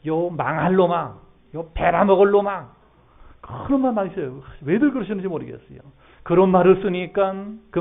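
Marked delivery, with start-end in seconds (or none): 0.1-2.8 put-on old scolding curse. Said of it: "어른들이 쓰신 말들".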